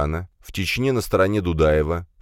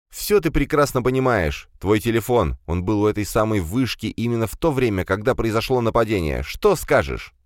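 angry accusation; 4 semitones higher than usual. Acted. Commissar presses accusation.

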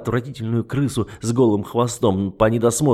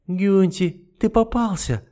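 a gloating shriek, pitched high; nasty yell; 9 semitones higher, slower than usual. Acted. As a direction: crow it at him from the doorway. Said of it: "с порога противно завопила Матильда".

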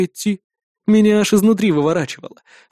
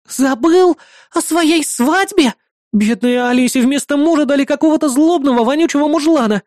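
put-on outraged girl; 8 semitones higher than usual. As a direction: shriek in outrage at the groom, high. Melissa outraged.

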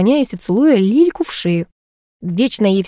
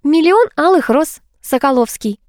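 higher, slowly drawn-out retort; exasperated, slow and pitched up; breathed-out retort; 8 semitones higher than usual. Acted. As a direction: spell it out for him with emphasis. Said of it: "выдохнула Лилька".

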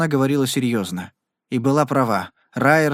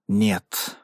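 a low, sullen no; 5 semitones lower than usual. Acted. Carrie turns down Jen's plea to run, sullen. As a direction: refuse her gloomily, a touch low. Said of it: "угрюмо произнёс он".

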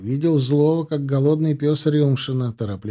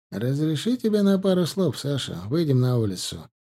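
usual speaking voice

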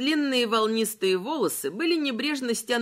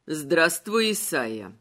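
skeleton voice; 6 semitones lower, slower than usual. Acted. Malachi greets Isaiah.

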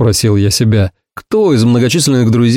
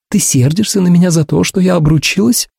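higher, anxious questioning woman; Ursula's voice; 6 semitones higher than usual. A narrator's reading. Ursula asking if he is angry, high and anxious. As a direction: ask with a worried rise.

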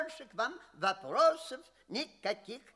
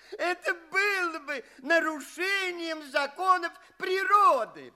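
louder, laughing through the verdict; laughing dismissal; 4 semitones higher, 4 dB louder than usual. Acted. Examiner dismisses the guest's claim with a laugh. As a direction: scoff it away while laughing.

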